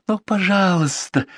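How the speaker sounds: high, slow wheedling; wheedling plea. A narrator's reading. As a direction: stretch it out sweetly. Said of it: "ласково так вкрадчиво".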